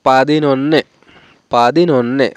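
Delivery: পাদিনন্যে with both n sounds voiced; a careful model পাদিনন্যে with two n's; double n. Shown as a demonstration. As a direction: say পাদিনন্যে carefully, n after পাদি and a long nn. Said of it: "এখানে দুইটো ন উচ্চারণ হবে".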